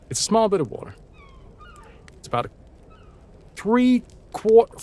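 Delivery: rapid American accent, with the R of "water" sounded; quick American accent. Shown as a demonstration. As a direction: rattle it off in American. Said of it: "when it comes to American".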